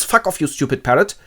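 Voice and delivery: high, loud panicked shout; comic panic. Acted. Robinson panicking at a human footprint, high and loud. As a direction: freak out at the footprint.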